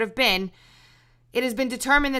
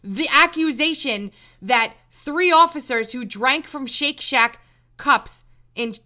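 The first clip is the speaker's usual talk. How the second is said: ordinary delivery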